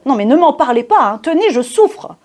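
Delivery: mock-anguished complaint; theatrical suffering. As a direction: play the put-upon martyr, pitch climbing. Comic sufferer closing his exasperated refrain.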